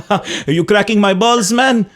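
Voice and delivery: a hint of a Lebanese accent, rising on man; quoting the character's line with a light Lebanese accent; mock Lebanese accent. Host quoting the guest's movie line, light Lebanese accent. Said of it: "And then you go".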